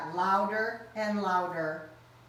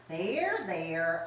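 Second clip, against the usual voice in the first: soothing; 3 semitones lower than usual. Acted. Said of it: "patted him kindly".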